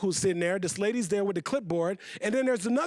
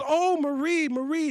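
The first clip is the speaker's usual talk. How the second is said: sympathetic; 5 semitones higher, 3 dB louder than usual. Acted. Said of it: "she could hear the stress in my mom's voice".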